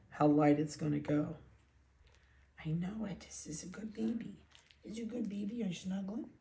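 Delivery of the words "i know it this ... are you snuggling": soft, cooing puppy voice. Real, not acted. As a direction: coo very quietly to a snuggling puppy.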